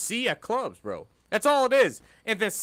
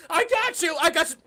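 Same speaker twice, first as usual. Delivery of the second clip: much higher, loud playful "I got you"; mock comforting coo; 12 semitones higher, 3 dB louder than usual. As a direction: coo it up high like teasing a clumsy girl. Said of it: "she's like".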